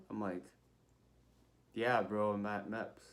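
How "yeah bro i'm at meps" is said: offhand reply, dropping away at the end; retold cheeky, laid-back answer; casual bro answer. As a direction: answer like you're talking to a buddy. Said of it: "I didn't say that".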